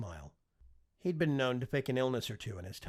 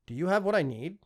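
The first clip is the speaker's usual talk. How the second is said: eager question; 6 semitones higher, 7 dB louder than usual. A narrator's reading. Prince eagerly asks nano servant.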